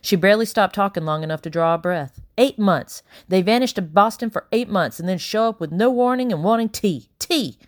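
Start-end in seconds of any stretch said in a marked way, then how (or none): 2.4-7.6 grumbling housekeeper. Acted. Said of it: "she muttered".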